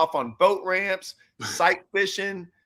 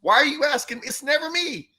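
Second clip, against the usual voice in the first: exasperated retold complaint; 5 semitones higher than usual. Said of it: "I'd had enough".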